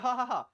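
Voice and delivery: brief demonstrative "ha ha ha" laugh; mock laugh. Shown as a demonstration. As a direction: fake a short laugh to show the class. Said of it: "if I start laughing here".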